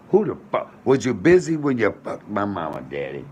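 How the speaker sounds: sudden furious shout, pitch shooting up; angry outburst. Real, not acted. Son venting at his absent daddy, furious shout. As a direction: blow up at him like he's in the room.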